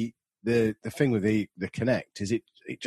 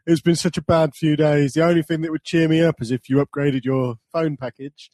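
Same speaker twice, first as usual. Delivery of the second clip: mock sad salesman; 6 semitones higher, 6 dB louder than usual. Mock upselling call centre guy.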